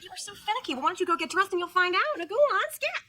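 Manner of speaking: playful shooing in pet talk; cooing pet talk. Acted. Girlfriend sending boyfriend off to dress like a cat, cooing. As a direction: chide and shoo him like a cat. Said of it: "treating Perry like he's her cat".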